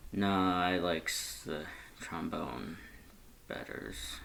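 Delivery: slow, drowsy, fading murmur; sleepy murmur. Acted. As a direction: mumble it half asleep. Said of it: "Red's response was sleepy, murmured".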